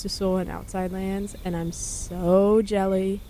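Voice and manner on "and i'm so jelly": slow, drawn-out mock politician voice with a heavy stress on so; a quick, playful impersonation of a brash tycoon stretching the words; Trump accent. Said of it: "I said it in a Trump accent".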